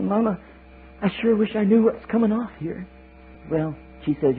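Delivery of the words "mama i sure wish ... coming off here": high, whining little eaglet voice; squeaky baby bird complaining; whiny child eaglet. Acted. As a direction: plead like a small child.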